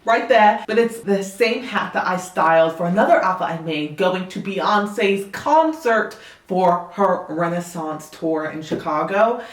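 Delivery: light put-on Southern accent. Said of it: "if my Southern accent isn't the best".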